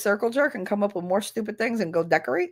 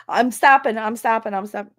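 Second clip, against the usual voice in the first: put-on kid backing down; 3 semitones higher, 5 dB louder than usual. A caught kid pleading with the teacher, loud then fading. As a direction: play a caught kid promising to stop. Kids backing down under her look.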